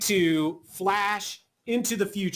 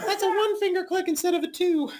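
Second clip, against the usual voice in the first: laughing; 12 semitones higher than usual. Real, not acted.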